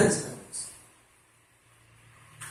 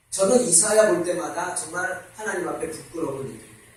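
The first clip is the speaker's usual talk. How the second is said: ordinary talk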